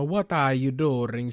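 lightly imitated vampire-like Eastern European accent; slow, teasing take on a Sokovian accent; mock Sokovian accent. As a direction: put on a hint of vampire-style Sokovian accent. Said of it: "She sound like a vampire".

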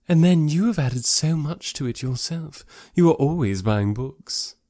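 slow, lightly voiced admiring lady; flattering, lingering over the praise; Miss Bingley. Lady complimenting Darcy on buying books, admiring.

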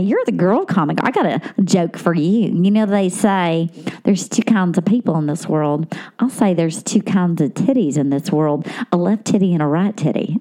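low-pitched Southern man telling a crude joke; guy heckling a comic. Retold or imitated. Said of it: "I had a guy say that to me".

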